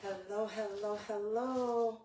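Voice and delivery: high, drawn-out hellos; lilting high welcome to the viewers; sing-song greeting. Real, not acted. Host opening livestream greeting.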